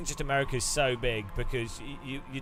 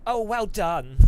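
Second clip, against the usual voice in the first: high, camp race engineer praise; camp pit voice; 8 semitones higher, 5 dB louder, slower than usual. Pretend. Joking about the car's pit voice, gushing camp. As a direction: gush like an over-the-top camp engineer. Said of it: "the voice in the car is gonna be like".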